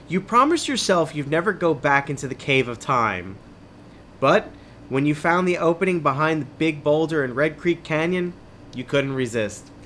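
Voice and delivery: measured, dramatic adventure-book reading; story narration. A narrator's reading. Host reading an adventure book to listeners, story narration. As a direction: read it like a suspenseful tale.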